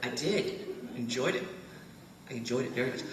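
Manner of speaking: imitating two old British men, polite British accent, laughter breaking through; a fond send-up of two old British tourists, cracking up; posh British accent. Quoting the British men at the back of the tour train, British accent with stifled laughter. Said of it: "They talk just like that".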